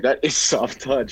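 slow down and lean on "is"; emphatic agreement. Retold or imitated. Fan recalling his reaction to the line, emphatic.

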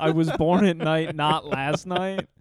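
slow drawn-out folksy country voice; country bumpkin. Retold or imitated. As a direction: drawl the saying like a country bumpkin. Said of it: "country bumpkin sort of saying".

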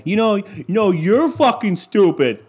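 high, strained mock bickering; mock drunk family yelling. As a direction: lampoon relatives sniping at the holiday table. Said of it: "yell at each other".

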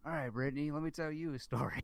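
teasing her co-host with a mock story intro; old storyteller. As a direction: settle in like a grandma by the fire. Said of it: "let me go get my rocking chair".

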